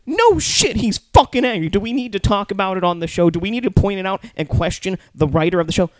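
high, loud indignant rant; exasperated outburst. Real, not acted. Viewer berating the recap show for questioning the obvious, exasperated. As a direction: blow up at the obvious.

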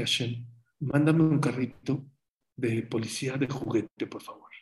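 put-on hushed, fading child's plea; child's soft prayer. Little boy at his bed asking Hashem, hushed. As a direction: pray softly like a little boy.

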